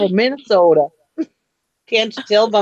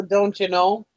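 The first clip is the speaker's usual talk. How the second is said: Minnesota accent; 4 dB quieter, slower than usual. Shown as a demonstration. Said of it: "Or the".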